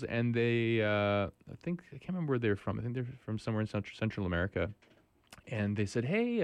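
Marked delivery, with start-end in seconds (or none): 6.1-6.4 high bright call in broken English. Retold or imitated. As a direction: mimic a friendly foreign accent. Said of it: "in broken English".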